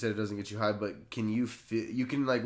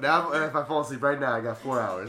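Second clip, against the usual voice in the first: raised, louder mock worry, then settling; mock sleepless panic; 4 semitones higher, 4 dB louder than usual. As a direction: act out bedtime clock-watching dread. Acting a sleepless clock-watcher's panic.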